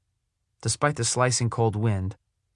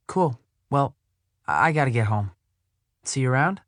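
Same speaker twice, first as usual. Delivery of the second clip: put-on lifted, eager young girl; 4 semitones higher than usual. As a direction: ask it brightly as the girl. Cammy leaving.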